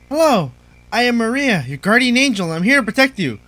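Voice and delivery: a hint of an angelic character, slightly lifted; lightly voiced guardian angel.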